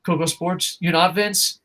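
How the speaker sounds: hushed pretend greeting to Vince; soft mock welcome. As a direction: lure the boss in quietly. Addressing Vince mock-formally.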